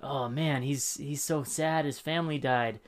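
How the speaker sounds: mock pity building into a loud laugh; mock sympathy. Co-host mocking a film character's haircut, mock sympathy. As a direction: feign sympathy, then crack up on the punchline.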